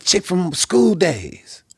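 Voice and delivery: high, drawn-out explanation; imitating band member. Band member explaining who she is, high drawn-out imitation. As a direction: stretch it out in a high voice. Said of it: "That's how he said it".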